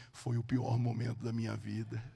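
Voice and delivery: low, slow, solemn voice; measured, grave delivery with long pauses; Jesus. Retold or imitated. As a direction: speak low and slowly, letting each phrase settle. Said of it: "Jesus começou a falar comigo assim".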